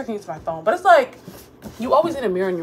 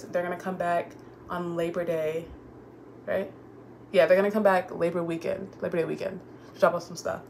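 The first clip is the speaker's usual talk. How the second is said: slight lisp from retainers; wearing a retainer. Real, not acted. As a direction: talk around a retainer. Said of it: "If I have a lisp, I have my retainers in".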